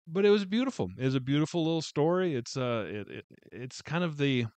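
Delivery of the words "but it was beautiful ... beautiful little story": gushing. Real, not acted. Reviewer gushing over the story.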